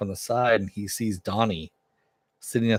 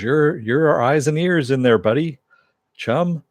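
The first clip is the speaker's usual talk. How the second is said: higher and louder, bubbling with buddy chum; eager Tick on comms; 7 semitones higher, 6 dB louder than usual. Retold or imitated. Tick cheers Arthur on through the earpiece, high and eager. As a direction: cheer him on like an overexcited sidekick.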